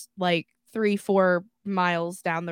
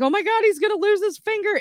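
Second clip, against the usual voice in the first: high, rushed panicking mom; mock maternal panic; imitated freak-out; 11 semitones higher, faster than usual. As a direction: blurt it out as a frantic mother. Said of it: "my mom's freaking out".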